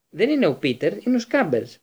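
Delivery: yelled, defending his pet; shout. A narrator's reading. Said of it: "φώναξε ο Ρον". (δυνατή φωνή άρνησης, όλο και πιο ψηλά)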